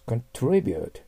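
"contribute" said slowly and clearly as a model, stress on TRI, falling at the end; model pronunciation. Shown as a demonstration. Teacher pronouncing "contribute" for students to copy, clear and careful. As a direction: give "contribute" as a clean model, con-TRI-bute. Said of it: "contribute発音します".

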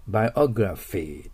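biography with a clear English R in "gra" and F for "ph". Shown as a demonstration. Teacher modelling biography for students, careful R and F. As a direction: say biography with R in the middle and an F sound at the end. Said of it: "グラがRの発音であること".

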